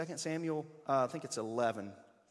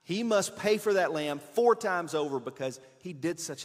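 louder, slow, solemn oath of fury; burning anger; 6 dB louder than usual. Acted. David, enraged at the rich man, swears in anger. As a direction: vow death to the man, hotly. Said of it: "David burned with anger".

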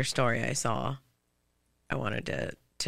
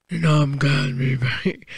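deep soul-singer voice; 4 dB louder than usual. Retold or imitated. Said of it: "why does she sound like a soul singer".

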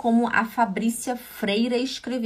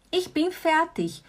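Ich bin fertig repeated higher and slower; higher repetition; 6 semitones higher than usual. Shown as a demonstration. Teacher repeating the phrase slowly for students. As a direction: lift the repeat up, unhurried. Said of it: "Also gut".

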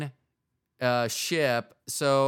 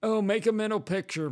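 high, put-on leering voice; mock creep murmuring to himself at a strip club; creepy onlooker; 9 semitones higher than usual. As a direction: play a creepy guy ogling the stage. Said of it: "I wouldn't be sitting there going".

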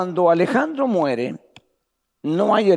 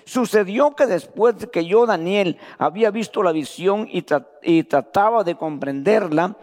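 slow, raised reading of scripture; lectura bíblica; 3 semitones higher than usual. Acted. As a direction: proclaim the verses to the church. (lectura solemne de la Escritura en voz alzada)

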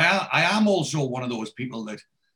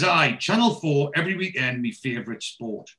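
Geordie dad. Retold or imitated. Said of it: "So he says".

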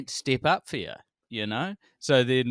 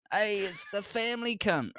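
jeering fan; 9 semitones higher, 5 dB quieter than usual. Retold or imitated. Retold fans calling her name.

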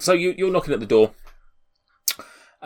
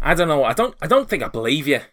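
doubtful, slightly raised voice; shouting door guard; 7 semitones higher, 7 dB louder, faster than usual. Acted. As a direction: hesitate and push back at the strangers. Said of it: "a shouting voice".

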